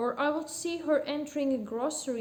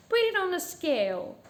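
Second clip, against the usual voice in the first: raised, louder order; commanding customer; 5 semitones higher, 5 dB louder than usual. A narrator's reading. Lady orders the butcher to weigh it, commanding. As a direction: order the butcher about in a high, firm voice.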